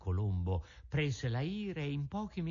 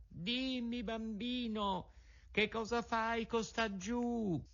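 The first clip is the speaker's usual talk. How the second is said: pigeon calling down; 10 semitones higher, slower than usual. A narrator's reading. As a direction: call down gently from the sky. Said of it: "gli gridò da una grande altezza".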